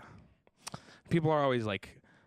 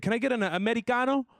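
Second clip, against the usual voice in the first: put-on higher, faster posh-kid voice, saying Americano as Amedicano; higher snooty rich kid repeat; 8 semitones higher, faster than usual. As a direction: toss off the order like a rich kid. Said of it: "He said".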